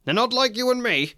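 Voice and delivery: a lightly voiced pompous uncle; Vernon. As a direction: talk down to his wife like she's naive. Vernon voiced in a read scene.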